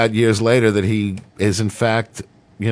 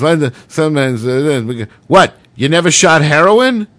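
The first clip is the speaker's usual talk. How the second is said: higher, louder disbelieving yell; can't believe what he's hearing; incredulous outburst; 6 semitones higher, 5 dB louder than usual. Retold or imitated. Director shouts in disbelief at the newcomer's answer.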